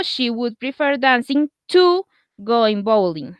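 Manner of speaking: slow, careful English example; slow model sentence. Shown as a demonstration. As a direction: read it slowly for learners. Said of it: "repeat of example".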